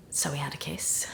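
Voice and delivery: very quiet and low, nearly whispered; guilty confession. Acted. Confessing the kiss to best friend, guilty near-whisper. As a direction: drop right down to own up.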